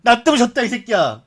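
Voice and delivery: playing Marcelo yelling back at the fans; mock angry shout. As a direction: bark it back at the critics, half joking. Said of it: "이런 거지".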